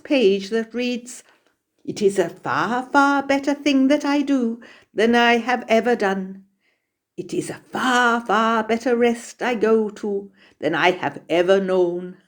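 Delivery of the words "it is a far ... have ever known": measured, sustained reading aloud of a classic; poetic recitation. Retold or imitated. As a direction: recite it like poetry, bringing the words to life. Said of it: "Oh, it was like poetry".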